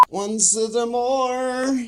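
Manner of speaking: high, slow laugh through words. Real, not acted. Laughing aside after outro.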